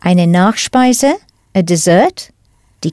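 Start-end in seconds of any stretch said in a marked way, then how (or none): 0.0-1.2 slow, careful "Eine Nachspeise" with a rising end; slow clear model. Shown as a demonstration. Teacher slowly repeating the option for learners. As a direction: draw the phrase out for the learner. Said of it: "teacher repeats the model phrase".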